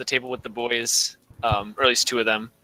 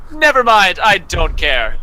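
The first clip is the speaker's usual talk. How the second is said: loud, high brush-off; brusque dismissal; 4 semitones higher, 6 dB louder, slower than usual. Acted. Teacher brushing off a student before she answers, loudly dismissive. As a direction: cut them off loudly before they can speak.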